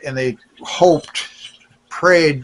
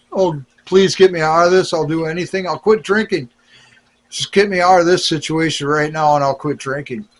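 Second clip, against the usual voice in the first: pleading prayer, pitch raised at the start; desperate prayer; 3 semitones higher than usual. Retold or imitated. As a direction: beg to be saved, half-retold. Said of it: "the foxhole prayer thing".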